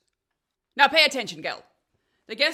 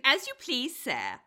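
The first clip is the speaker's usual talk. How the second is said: mocking twitter; 4 semitones higher, slower than usual. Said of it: "by twittering".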